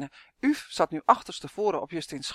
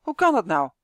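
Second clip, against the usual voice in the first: mildly cross, louder outburst; indignant, raised-voice protest; angry call; 7 dB louder than usual. A narrator's reading. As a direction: call out with a touch of anger. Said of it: "riep Justin boos".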